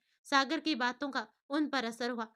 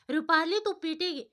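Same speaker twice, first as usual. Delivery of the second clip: pouting mock threat; 5 semitones higher, 5 dB louder than usual. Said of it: "मुँह बनाते हुए कहती है".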